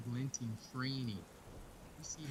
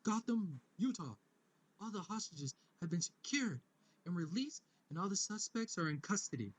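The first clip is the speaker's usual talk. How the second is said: TV news anchor. Retold or imitated. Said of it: "as it goes".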